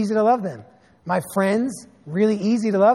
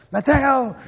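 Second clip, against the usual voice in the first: raised, higher call of a name; yelling a name; 5 semitones higher than usual. Retold or imitated. Grandpa yelling at his neighbor out the door, raised call. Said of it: "He's yelling out the door".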